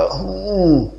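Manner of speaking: a sick man's weak groan; mild groan of a bedridden husband; groaning hum. Acted. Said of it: "کراہتا ہوا بولے گا".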